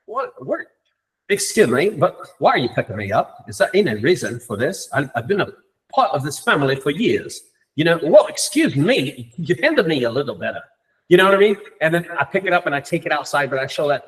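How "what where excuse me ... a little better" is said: lightly put-on voice of an offended chair; a hint of an affronted, elegant character; elegant chair's voice. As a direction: play an elegant chair objecting to being handled. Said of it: "then I changed the voice".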